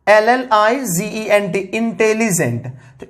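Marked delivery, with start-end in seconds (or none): 0.1-1.6 slow, deliberate spelling; teacher spelling out a word for the class; spelled out letter by letter. Shown as a demonstration. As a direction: spell each letter clearly, slowly. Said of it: "जैसे इंटेलिजेंट".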